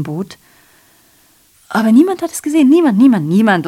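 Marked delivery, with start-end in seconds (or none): 1.7-3.7 insistent outcry. Acted. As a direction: cry out that nobody saw. Repeated insistent outburst.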